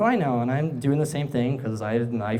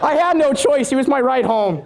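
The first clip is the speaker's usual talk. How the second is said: laughing; 10 semitones higher, 6 dB louder than usual. Real, not acted. Laughing at own story.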